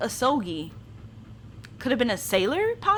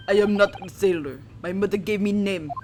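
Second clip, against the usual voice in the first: put-on indignant, heavy Russian accent; offended Russian sailor; 3 semitones lower, 4 dB louder than usual. The sailor correcting the pair who called him sailor, in a proud Russian accent. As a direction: set them straight like a proud Russian crewman.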